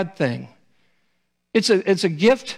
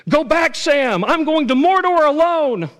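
high, loud, determined farewell; Frodo; 12 semitones higher, 6 dB louder than usual. Retold or imitated. Frodo telling Sam to go back, loud high insistence. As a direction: send your friend away, full voice. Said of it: "Frodo goes".

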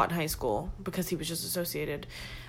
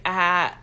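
mock guy laugh. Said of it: "That's how he laughed".

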